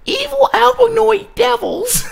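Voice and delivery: very high, slow nasal mockery; mock her shrill, drawn-out slogan; nasal woman impression. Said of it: "the one that says things like this".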